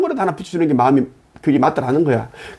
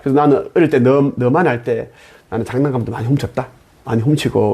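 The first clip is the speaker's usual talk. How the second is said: put-on gentle talk to a child; 6 semitones lower than usual. A kind man telling a crying child his own childhood, gently lower. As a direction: speak low like a kind uncle comforting a child. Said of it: "나 같으면 그래".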